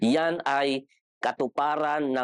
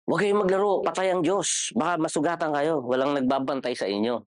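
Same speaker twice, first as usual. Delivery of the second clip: put-on elders warning kids; 3 semitones higher than usual. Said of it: "sinasabi sa amin".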